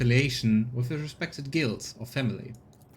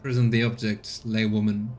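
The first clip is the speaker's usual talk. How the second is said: imperious. Acted. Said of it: "Imperiously, he tells her".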